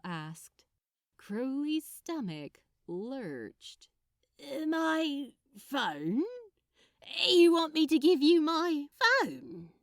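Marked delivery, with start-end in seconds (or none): 4.4-9.7 rising disbelief, getting louder; you can't be serious; caught-out gasp at the question; incredulous. A narrator's reading. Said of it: "he asked incredulously".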